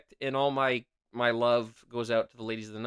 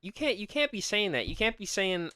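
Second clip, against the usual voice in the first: high, disbelieving protest; you cannot be serious; incredulous; 7 semitones higher than usual. Real, not acted. Host objects to cohost's cream puff line, incredulous.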